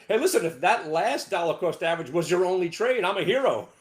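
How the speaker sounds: usual speaking voice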